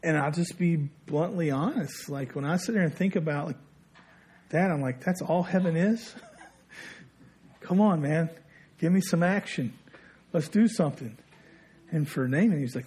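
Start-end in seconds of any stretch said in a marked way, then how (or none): 5.0-11.2 higher, half-laughing incredulous complaint; playfully protest, egging someone on; mock impatience. Voicing his own impatience with heaven.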